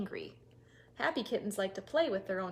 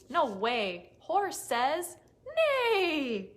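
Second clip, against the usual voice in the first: horse's reply; 5 semitones higher, 6 dB louder, much slower than usual. Acted. Horse answers.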